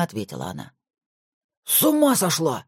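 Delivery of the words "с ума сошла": ominous. A narrator's reading. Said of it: "зловеще начал".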